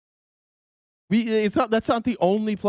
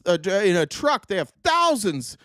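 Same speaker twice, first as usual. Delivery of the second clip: higher mock voice, lightly done; a light high parody of Bondi; mocking Pam Bondi; 6 semitones higher than usual. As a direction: play the official airily promising boxes. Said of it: "Pam Bondi said".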